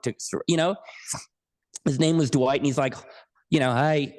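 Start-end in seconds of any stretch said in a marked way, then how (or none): 3.7-4.1 attempted Australian accent on a greeting; bad Australian accent. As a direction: put on a poor Australian accent. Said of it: "this is my really bad Australian accent".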